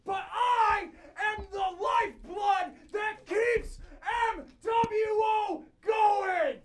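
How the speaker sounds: shouting through a cone. Real, not acted. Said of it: "I don't need a microphone because I found this cone".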